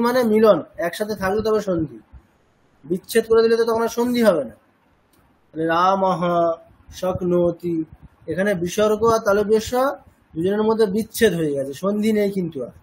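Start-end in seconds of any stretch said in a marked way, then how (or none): 5.7-7.8 রামহ then a pause, then শক্নোতি; separated pronunciation. Shown as a demonstration. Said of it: "আলাদা করে বললে".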